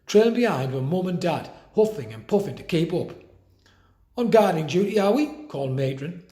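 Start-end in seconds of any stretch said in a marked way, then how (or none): 4.2-5.5 distrustful. A narrator's reading. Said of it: "riddled with distrust".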